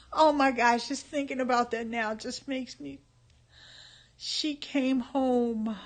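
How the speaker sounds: fighting back tears; real tears welling up; tearing up. Real, not acted. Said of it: "I'm tearing up".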